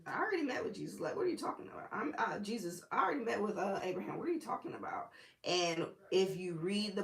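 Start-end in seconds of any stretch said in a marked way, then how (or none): 0.1-5.1 incredulous aside. Retold or imitated. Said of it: "automatically thinking".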